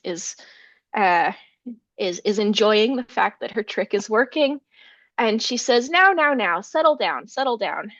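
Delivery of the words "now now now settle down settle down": storyteller's light calm-down voice; mild soothing. Acted. Wife to the rattled giant, mild soothing.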